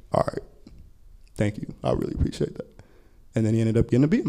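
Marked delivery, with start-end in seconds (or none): 0.1-2.7 very soft, low and humbled; hushed, dropping almost to a whisper; subdued thanks. Retold or imitated. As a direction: imitate a student quietly accepting kindness. Tearful student thanks the teacher.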